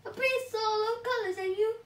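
high, loud then slowing idea; lightly voiced hero with a plan; scheming hero. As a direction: let the plan dawn slowly. Sweet Potato gets an idea.

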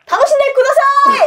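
high shouted stage call; rally a Japanese crowd. Shown as a demonstration. 日本語の煽り、高く叫ぶ. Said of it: "일본어는 좀 길어".

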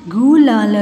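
गुलाल stretched part by part; syllable by syllable. Shown as a demonstration. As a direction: sound out गुलाल. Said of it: "फिर ये सारे बोलने". (गुलाल को तोड़-तोड़ कर)

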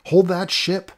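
loud, high yell across the dock; belted yell. Acted. Boy yelling to the departing airship, loud high belt. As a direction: yell it as loud as you can. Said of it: "Mao belted out as loud as he could yell".

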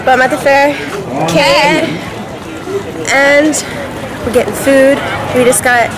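talking over wind outdoors; windy fair. Real, not acted. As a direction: at a noisy windy event. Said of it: "the wind's really bad".

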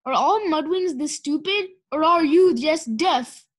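loud bellow, slowing on the last words; a trainer yelling insults at her student. Acted. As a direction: hammer each word at him in scorn. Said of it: "Kestrel bellowed in his ear".

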